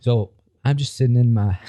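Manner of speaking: put-on shaky try at an American accent; badly faked American, about to crack up; half-hearted American YouTuber; attempted American accent. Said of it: "I can't do an American accent".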